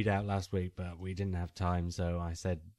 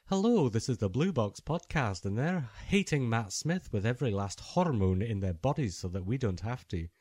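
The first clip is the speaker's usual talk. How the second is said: a light, hammed-up Scottish accent for the fan club; mock Scottish accent; 2 semitones higher than usual. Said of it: "Was that a Scottish accent?".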